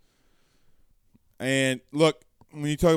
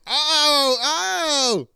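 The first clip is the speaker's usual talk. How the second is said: mock surprise; 11 semitones higher, 5 dB louder than usual. Pretends to eat play ice cream.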